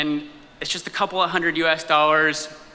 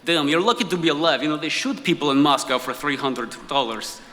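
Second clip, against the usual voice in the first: put-on Russian accent. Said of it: "the more senior guy".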